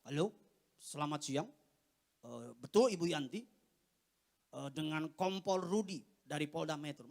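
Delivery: low, official police caller voice; disguised police officer. Acted. Son posing as a police officer to his mother, disguised voice. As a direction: put on a deep officer's phone voice. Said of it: "Saya suka ubah-ubah suara saya".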